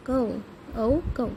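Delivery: "कौ" drawn out slowly, then "औ कौ" spelled out; slow sound drill. Shown as a demonstration. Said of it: "क के साथ ओ की मात्रा कौ". ("कौ" को धीरे-धीरे खींचकर बोलें)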